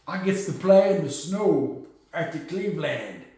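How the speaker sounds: lightly voiced goofy quarterback impersonation; a hint of Jameis doing his own talking; imitating Jameis Winston. Mocking how the Giants quarterback talks, lightly voiced imitation. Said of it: "That's how he talks".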